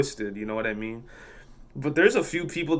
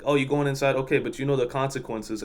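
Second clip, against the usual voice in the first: understated ominous warning; 4 dB quieter than usual. Retold or imitated. Attendant warning customer about consequences, mildly ominous. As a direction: warn them with veiled threat, lightly acted. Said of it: "I word it as ominous as possible".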